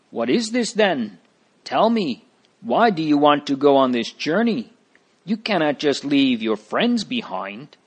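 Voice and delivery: worried neighbor woman. Acted.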